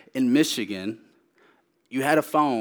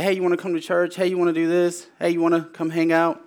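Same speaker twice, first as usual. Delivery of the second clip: higher-pitched, friendly invites in a row; light, higher voice of a friendly inviter; casual invitation; 5 semitones higher, faster than usual. Retold or imitated. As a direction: imitate people casually asking someone along. Quoting people's casual invitations.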